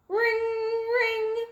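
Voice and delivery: high, ringing bell call. A narrator's reading. The fire station alarm bell ringing.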